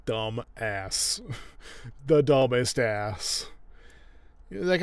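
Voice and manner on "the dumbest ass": DUMBEST drawn out and loud; emphatic exasperation. Real, not acted. Commentator despairing of Alan, slow emphasis on "dumbest". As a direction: lean slowly and loudly on "dumbest".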